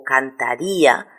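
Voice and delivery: "cantaría" with stressed í, split from the a; hiatus pronunciation. Shown as a demonstration. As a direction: say "cantaría" as can-ta-RÍ-a, í held. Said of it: "lo pronuncio como dos sílabas diferentes".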